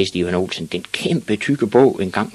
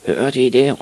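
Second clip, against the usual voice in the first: loud, higher call to the gang; raised-voice schoolyard heckle; jeering shout; 6 semitones higher, 6 dB louder than usual. A narrator's reading. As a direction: holler it mockingly to the other boys. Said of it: "råbte nogen af dem".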